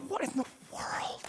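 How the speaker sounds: hushed, breath-only disbelief; acted crowd's awed whisper; astonished whisper. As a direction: whisper it in stunned amazement. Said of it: "people are going".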